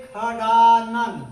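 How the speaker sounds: खडानन said with a kh sound at the start. Shown as a demonstration. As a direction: say खडानन as khadanan, slow. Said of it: "हम इसका ख का उच्चारण करते हैं".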